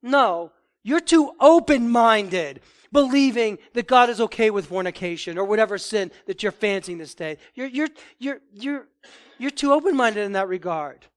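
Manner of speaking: preacher models a loud answer to the narrow-minded charge; loud firm retort. Shown as a demonstration. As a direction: turn the accusation back, loud. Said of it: "you have to say".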